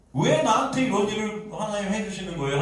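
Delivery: mild mock protest to God, starting high; resentful complaint. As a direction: complain upward, as if wronged. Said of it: "원망하고 그런 일들이". (높게 시작하는 원망 섞인 항변)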